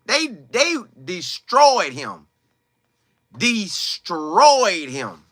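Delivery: DESTROYED stretched out very slowly; slow, heavy stress on destroyed; drawn-out emphasis. Real, not acted. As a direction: drag out the word destroyed for weight. Hammering how badly they treated him.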